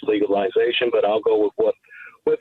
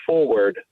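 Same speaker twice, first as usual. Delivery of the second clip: forward gesetzt, langsam und mit Nachdruck; stress on forward. Shown as a demonstration. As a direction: lean on forward, slow and firm. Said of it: "I'm gonna emphasize the word".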